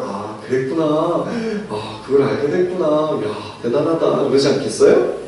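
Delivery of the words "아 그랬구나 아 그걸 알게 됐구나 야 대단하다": soft, indulgent praise with a smile; gentle praise. Retold or imitated. Adult gently praising the boasting kindergartener, soft and smiling. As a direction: humour the child kindly, softer. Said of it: "씩 웃으면서 그 친구에게".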